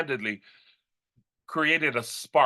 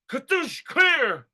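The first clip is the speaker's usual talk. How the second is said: defibrillator shock; 9 semitones higher, much slower than usual. Retold or imitated.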